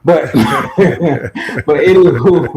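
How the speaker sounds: laughing through the words. Real, not acted. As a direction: chuckle while you say it. Laughing while wrapping up.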